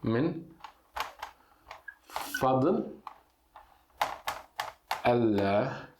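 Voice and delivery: "Min", "fadl", "Allah" split apart by long pauses; word by word. Shown as a demonstration. Teacher writing in Latin letters, word by word. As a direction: dictate each piece slowly. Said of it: "Eu vou escrever em letra latina".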